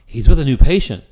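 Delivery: a lightly hammed-up front desk brush-off; imitating the receptionist. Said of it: "they go".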